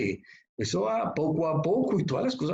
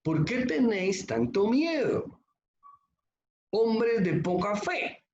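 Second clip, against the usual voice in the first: Jesus rebuking; 7 semitones higher, slower than usual. Retold or imitated. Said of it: "como le dijo el Señor Jesús".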